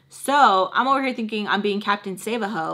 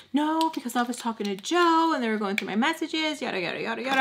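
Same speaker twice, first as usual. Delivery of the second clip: high, whiny mock sobbing voice; imitated breakdown; 4 semitones higher, faster than usual. Friend explains about Joe and messages, imitated tearful whine. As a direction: wail the excuse, pitched up. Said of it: "Breaking down".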